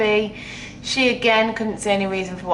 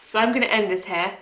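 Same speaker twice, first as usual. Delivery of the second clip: emotional; faster than usual. Real, not acted. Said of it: "I'm getting too emotional".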